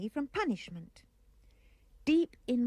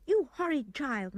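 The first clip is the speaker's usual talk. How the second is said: mild scolding mother; 2 semitones higher than usual. Acted. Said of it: "my mother cried".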